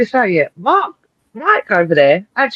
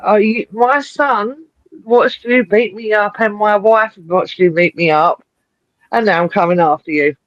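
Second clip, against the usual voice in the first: slow mock promo recap; slower than usual. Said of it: "he said".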